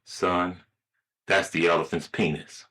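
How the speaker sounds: a touch of fatherly seriousness; serious father. Acted. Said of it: "The father looks real serious at his son".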